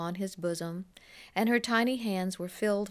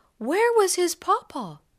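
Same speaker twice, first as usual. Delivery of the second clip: put-on worried, anxious child voice, very high pitched; 11 semitones higher, 8 dB louder than usual. A narrator recounts a child asking the master a question; anxious. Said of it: "with an anxious voice said".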